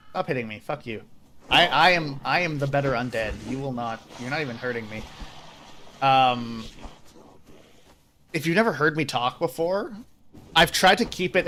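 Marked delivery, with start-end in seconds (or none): 0.1-5.0 haughty posh British undead, played softly; Theo. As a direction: put on a lightly posh, dismissive British character voice. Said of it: "And Theo's like".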